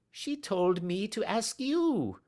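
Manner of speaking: high, slow timid voice; timid little man. Acted. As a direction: plead it meekly.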